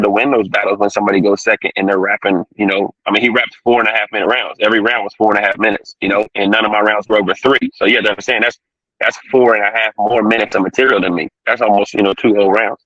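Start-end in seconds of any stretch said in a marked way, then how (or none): 3.2-12.8 distorted, glitchy connection; fuzz distortion. Real, not acted. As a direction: voice breaking up over bad line. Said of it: "'Cause you sound a little disturbed".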